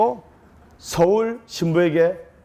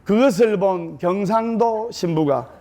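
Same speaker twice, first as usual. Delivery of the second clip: ordinary talk, nothing marked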